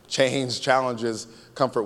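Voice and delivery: "Change challenges comfort" in full voice, slowly, unbroken; slow emphatic repeat. Shown as a demonstration. Preacher repeating the key line for the congregation, slow and firm. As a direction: stretch "Change challenges" slowly at normal volume.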